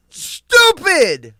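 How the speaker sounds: loud, high exclamation; self-scolding. Retold or imitated. Host retells finding cookies sold out, loud exclamation. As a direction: bark the word at yourself. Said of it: "I'm like".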